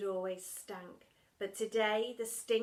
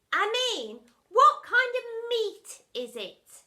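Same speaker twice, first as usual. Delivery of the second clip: put-on 1 asked girl; 13 semitones higher, 13 dB louder, slower than usual. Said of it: "asked the girl".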